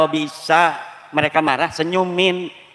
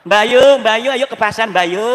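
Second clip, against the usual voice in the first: loud call across the house, higher; 4 semitones higher, 5 dB louder, slower than usual. Retold or imitated. Someone calls Bayu to go to the market, a loud call. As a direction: call for Bayu to come along, louder.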